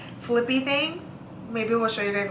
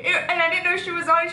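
breaking up with tearful laughter; laugh-crying through it; 7 semitones higher than usual. Real, not acted. Telling the ring alarm story, laugh-crying. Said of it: "I'm, like, crying already".

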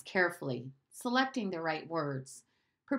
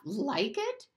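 "Like it?" repeated higher and a bit louder; 5 semitones higher than usual. Acted. Bruno repeats Maria's question more insistently, higher. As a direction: push the echo up in disbelief. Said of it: "he repeated, but louder this time".

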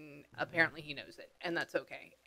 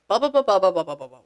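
rapid run of ba syllables, falling away; imitated eloquent babble; 3 dB louder, much faster than usual. Medium mimics the name she heard, babbled syllable run. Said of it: "He made me hear this very, like, eloquent".

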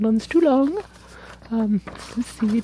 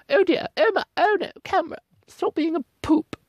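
mock scolding; 5 semitones higher than usual. Real, not acted. Scolding the camera.

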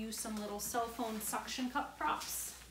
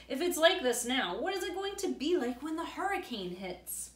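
put-on anxious boy; 5 semitones higher, 4 dB louder than usual. Frightened boy asks in storm.

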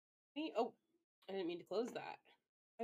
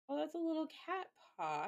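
delighted coo; 7 semitones higher, faster than usual. Real, not acted. Delighted at emote.

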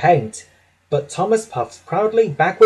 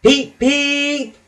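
high little train-whistle peep; engine whistle; 11 semitones higher than usual. A narrator's reading. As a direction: whistle back like a small cheerful engine. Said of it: "Thomas always whistles".

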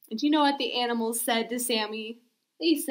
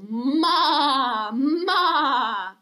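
goat bleat; 4 dB louder than usual. Shown as a demonstration.

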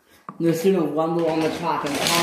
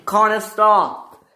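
higher, louder, drawn-out order to stop; urgent call; 6 semitones higher, 6 dB louder, slower than usual. Acted. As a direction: call out slowly to halt an engine. Calling an engine to halt.

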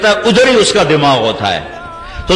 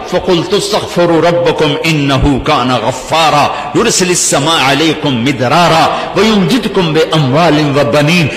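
Quran recitation. Acted. Preacher reciting Noah's plea to his congregation, Quran recitation. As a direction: recite the verses in a steady, flowing cadence.

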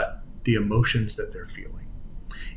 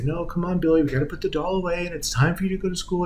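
lightly voiced coaxing mom, higher pitch; imitated mother; 5 semitones higher than usual. Mother telling her son to leave the doll, lightly imitated coaxing. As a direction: reason with a small child in a higher voice. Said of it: "And she would say".

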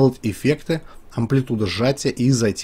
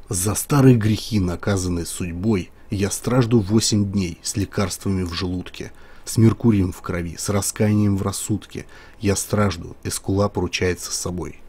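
movie trailer voice. Shown as a demonstration. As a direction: read it like an epic film trailer. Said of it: "С таким уже более низким эпичным голосом".

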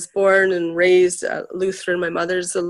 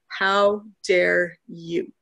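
slow, drawn-out indignant reproach; imitating an upset minister, each word stretched out; upset rebuke; much slower than usual. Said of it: "he got really upset with me".

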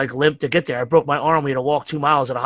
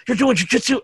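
much higher, disbelieving mock doctor; incredulous doctor; 9 semitones higher than usual. Doctor hearing his patient still trains, high and incredulous. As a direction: throw it up in disbelief.

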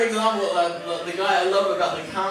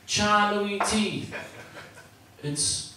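flat ad read; 3 semitones lower, 5 dB quieter, slower than usual. Retold or imitated. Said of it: "here we go".

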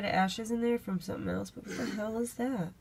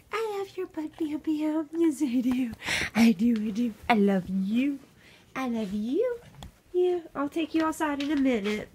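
doting; 5 semitones higher, 4 dB louder than usual. Real, not acted. Gushing at dog Bam Bam.

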